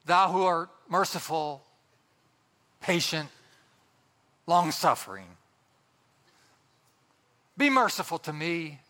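put-on lofty, old-fashioned prayer tone with thee and thou; sanctimonious. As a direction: intone it like a stained-glass prayer. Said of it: "special pious prayer tone".

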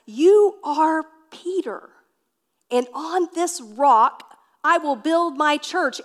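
a hint of Jesus declaring; lightly voiced Jesus. Jesus blesses Peter, slow and proclaiming.

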